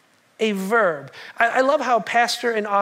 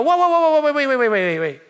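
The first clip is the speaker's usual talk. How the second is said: urgent stop; 4 semitones higher, 4 dB louder than usual. Acted. Jesus interrupting the couple.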